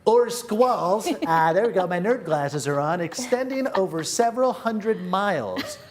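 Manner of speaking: light nerdy know-it-all voice; hint of a nerd lecturing. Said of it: "I always do the nerdy voice".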